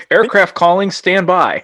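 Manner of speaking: mock radio controller. Mimics radio call.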